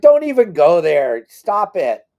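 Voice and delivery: no way, stop it; incredulous. Retold or imitated. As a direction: wave it off like he's kidding you. Disbelief at a claim about a band.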